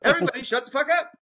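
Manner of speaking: high, fast laughing yell; exasperated laughing shout; laughing outburst. Real, not acted. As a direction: blow up at everyone while cracking up.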